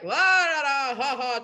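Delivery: mock a man merrily joking away; carefree runner. Imitating runner joking with volunteers, carefree. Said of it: "telling jokes to the other volunteers".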